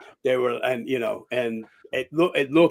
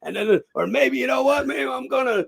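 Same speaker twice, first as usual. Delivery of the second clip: voicing his character; 8 semitones higher than usual. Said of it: "my character's going".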